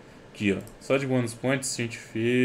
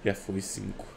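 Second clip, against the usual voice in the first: usual speaking voice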